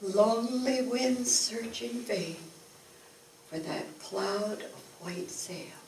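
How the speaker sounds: measured, rolling poetry reading with swells and soft endings; poem recital. Acted. Reciting a tall-ship poem to the audience, solemn and wistful. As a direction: recite it like a sailor's ballad, building in the storm and fading to the last sail.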